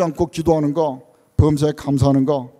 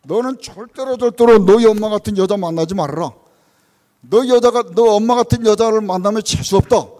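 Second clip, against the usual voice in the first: louder, a hint of a stern father berating his son; angry father scolding; 3 semitones higher, 5 dB louder than usual. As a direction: scold the boy with rising heat, mock-stern. Father scolding son about mother. (아들을 꾸짖는 아버지처럼 화난 목소리로)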